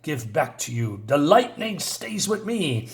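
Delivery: mildly acted indignation, pitch jumping about; angry wizard. Wizard rebuking Billy in a retelling, moderately angry. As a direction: rebuke them with bursts of emphasis, then drop away. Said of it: "this guy's an angry dude".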